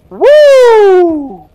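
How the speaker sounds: rising to a high, loud whoop of relief; startled whoop. Retold or imitated. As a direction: let the fright burst into a whoop. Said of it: "He was like".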